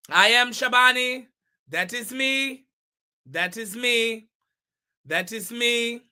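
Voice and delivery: deliberate put-on accent, each word separate; measured imitation of Shabani's accent. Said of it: "keep this accent all night".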